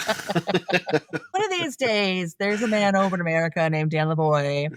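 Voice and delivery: mock filmmakers plotting. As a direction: jokingly voice a filmmaker scheming about one viewer. Jokingly voicing the filmmakers plotting.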